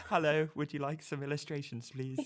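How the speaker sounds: a sweet, lightly voiced cold-call pitch to a family at dinner; mock cold caller. Illustrator cold-calling a family at dinner, polite mock pitch. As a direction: play a polite salesperson interrupting dinner.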